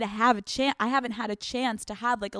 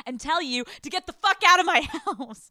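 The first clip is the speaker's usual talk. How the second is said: higher pitch, cracking up; laughing eviction; 5 semitones higher, 3 dB louder than usual. Acted. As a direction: break into laughter mid-demand. Acted landlord message breaks into laughter.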